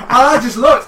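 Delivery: laughing at the dentist's story. Real, not acted. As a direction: burst of laughter, high and loud.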